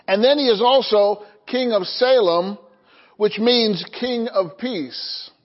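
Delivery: measured, emphatic Bible reading; scripture reading. Acted. Pastor reading Hebrews to the congregation, deliberate and emphatic. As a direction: read it out deliberately, phrase by phrase.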